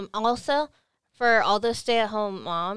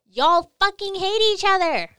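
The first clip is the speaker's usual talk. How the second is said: exasperated; 9 semitones higher, 6 dB louder than usual. Real, not acted. Ranting about married couples.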